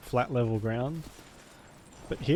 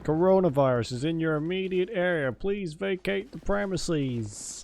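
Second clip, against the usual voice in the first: phone alert parody, slowed and raised; mock alert announcer; 5 semitones higher than usual. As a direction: read it like a fake emergency broadcast.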